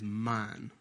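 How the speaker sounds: put-on low, soft possessive baby mine; a toddler claiming his toy, hushed; mock toddler mine. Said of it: "Their first words is".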